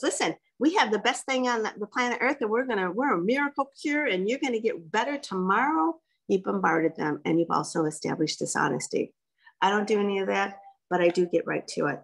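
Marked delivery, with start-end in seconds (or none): 0.0-6.0 pushy overhyped pitch. Retold or imitated. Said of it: "bombarding with this".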